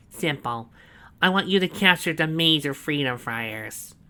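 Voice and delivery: loud, high, slow gloating; proud villain boast. A narrator's reading. Snively proudly showing Donovan the cell, loud and slow. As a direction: savour every word of the boast.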